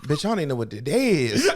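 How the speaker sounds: mock exasperated reply through laughter; laughing retort. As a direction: bark it back while cracking up. Voicing Yusuke, laughing.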